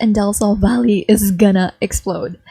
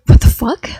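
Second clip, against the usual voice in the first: shocked outburst; 6 dB louder than usual. Acted.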